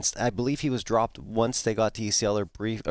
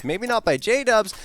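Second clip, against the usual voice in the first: excited; 10 semitones higher, 4 dB louder, slower than usual. Real, not acted. Caster call.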